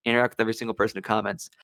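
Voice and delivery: rattled off fast as a mantra; fast repeat. Shown as a demonstration. Repeating the number one viral rule, rapidly. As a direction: fire the rule off quickly a second time. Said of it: "they say the number one thing is".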